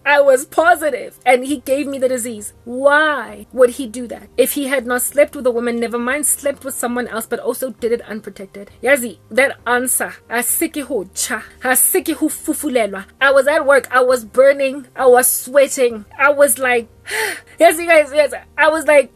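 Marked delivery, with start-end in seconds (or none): 0.0-1.2 high squealing laugh into the line; shocked laughter. Real, not acted. 17.0-18.3 gasp of emphasis. Real, not acted. Gasping emphasis.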